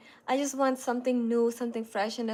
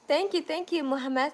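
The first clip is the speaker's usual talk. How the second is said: higher, lively double thank-you; bright thanks; 4 semitones higher than usual. Real, not acted. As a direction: cheerfully thank Mohammed. Thanking a commenter.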